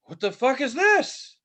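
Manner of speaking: high, slow, astonished yell; stunned outburst. Retold or imitated. Kid hearing a band for the first time, high shocked yell. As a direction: blurt it out in total shock. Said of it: "I was just like".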